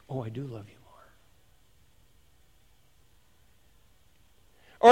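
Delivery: hushed, low reassurance; quiet voice. Acted. God's quiet voice answering the complaint, hushed and low. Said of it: "that quiet voice goes".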